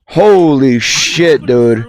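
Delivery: slow drawn-out amazement; slow shocked holy shit; stunned. Real, not acted. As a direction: let it stretch in awe. Shocked reaction.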